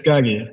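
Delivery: "Guggy" said as GAH-ghee; "Guggy", open first vowel, hard Gs; correcting the pronunciation. Shown as a demonstration. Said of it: "trust me to pronounce anything correctly".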